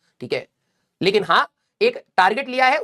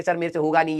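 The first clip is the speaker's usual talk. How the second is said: defeated student; 5 semitones lower than usual. Retold or imitated. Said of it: "pressure में आकर के".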